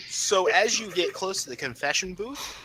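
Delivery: slow, drawn-out scene setting; game master narration. Acted. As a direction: unveil the eerie moment slowly.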